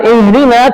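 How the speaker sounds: "ihdina" with a full, open h; big H. Shown as a demonstration. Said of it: "tunjukilah kami".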